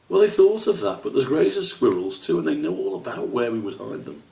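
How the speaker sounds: lightly voiced young fox explaining; Colin's voice.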